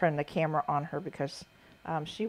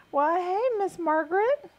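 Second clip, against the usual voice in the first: high, loud teasing "Miss Margaret"; sassy mock greeting; 12 semitones higher, 6 dB louder, slower than usual. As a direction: tease mom with fake formality. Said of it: "she's like".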